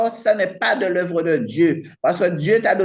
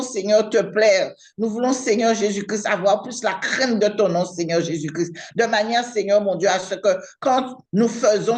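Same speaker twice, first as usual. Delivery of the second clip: earnest prayer, each phrase punctuated by Seigneur, mon Dieu; fervent prayer. Real, not acted. Leads a long spoken prayer. (prière fervente, les invocations Papa tombant bas)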